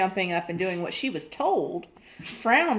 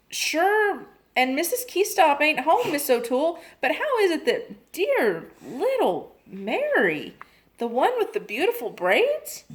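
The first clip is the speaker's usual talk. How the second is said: higher Irish maid voice; a maid answering her mistress's phone in an Irish accent; 8 semitones higher than usual. Acted. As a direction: play the chatty Irish maid. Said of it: "the maid Nora answered".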